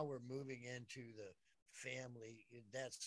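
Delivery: faint distant voice; far away. Real, not acted. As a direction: sound like you're far from the mic. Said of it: "We lost your sound".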